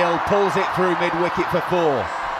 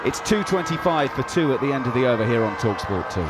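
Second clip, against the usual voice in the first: brisk radio play-by-play; cricket commentator; 3 semitones higher than usual. Real, not acted. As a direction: call the overs live on radio.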